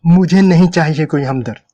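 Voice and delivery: irritated snap. A narrator's reading. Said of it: "वो झल्ला गई".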